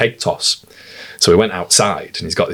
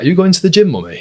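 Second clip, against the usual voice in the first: put-on sweet, innocent toddler question pitched up high; imitating his young son; 10 semitones higher, faster than usual. Dad voicing his four-year-old asking mum, high child voice. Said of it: "Ted's like".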